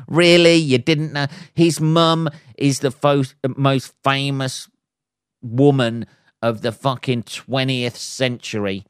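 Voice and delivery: high, loud disbelief at the start; can't believe what you're hearing; incredulous outburst. Real, not acted. Incredulous at Meghan not knowing.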